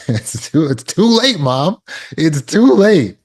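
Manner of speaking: high, loud and slow on the final too late; firm it's too late. Acted. Adult child telling Mom it's too late, firm and loud. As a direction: tell her firmly, it's too late.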